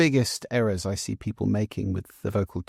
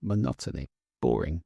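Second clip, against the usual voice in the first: monotone; 8 semitones lower, 4 dB quieter than usual. Shown as a demonstration.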